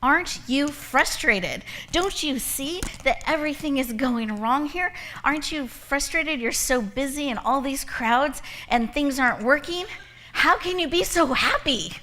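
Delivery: a customer demanding why the cashier is so happy, mock exasperated. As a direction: imitate a fed-up shopper venting at the cashier. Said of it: "And she goes".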